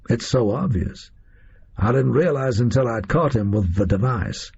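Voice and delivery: lightly voiced American gunman, pleased with himself; American captor. Oswald explains how Moriarty was changed, lightly voiced American captor. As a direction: boast casually in an American accent.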